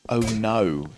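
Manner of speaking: "Oh no" with the speaker's own drawn vowel in "no"; own accented "no". Shown as a demonstration. Streamer showing viewers their accent, accented "Oh no". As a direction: show how "Oh no" sounds in this accent. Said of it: "I think in the ways that I say".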